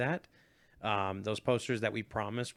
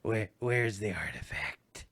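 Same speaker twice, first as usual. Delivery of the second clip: low, slow, lips barely moving; stiff upper lip voice; 3 semitones lower, slower than usual. Pretend. Imitating stiff-lipped actress line.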